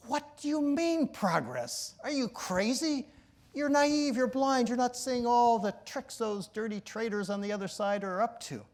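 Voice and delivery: loud, high, furious shouting; angry yell. Retold or imitated. President yelling at the mediator, loud angry tirade. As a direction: berate him like a furious president. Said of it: "yell at me".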